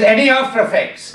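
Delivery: mock Indian doctor; Indian accent. Doctor asking about the tablet, Indian accent. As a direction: question in a put-on Indian accent. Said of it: "He was an Indian doctor".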